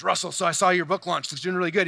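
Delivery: a hint of Tony Robbins, barely voiced. Tony Robbins calling him about the book launch, lightly voiced. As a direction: lightly voice the famous coach. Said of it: "in his Tony voice".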